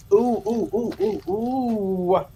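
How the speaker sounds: high excited oohs; opening a present. Real, not acted. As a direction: squeal with delight over the package. Squealing over a gift in the mail.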